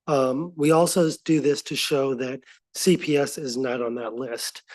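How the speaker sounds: hoarse, raspy speaking voice. Real, not acted. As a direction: speak through a sore, raspy throat. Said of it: "I'm sorry about my raspy voice".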